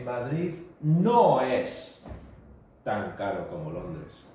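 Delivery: slow, clear teacher model; slow model sentence. Shown as a demonstration. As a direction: spell it out slowly for the class. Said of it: "How would you say".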